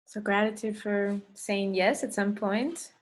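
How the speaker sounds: unhurried meditation leader, long pauses between phrases; guided meditation. Acted. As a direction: guide them gently through breath and intention. Leads a meditation.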